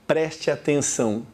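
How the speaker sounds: normal talking voice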